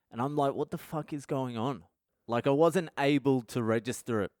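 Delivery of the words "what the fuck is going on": hushed, softer retold question; quietly re-enacted shock; stunned disbelief. Stunned, unable to register news.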